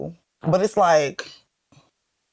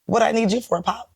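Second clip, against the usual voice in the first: quoting Dom; 5 semitones higher than usual. Retold or imitated. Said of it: "In the famous words of Dom".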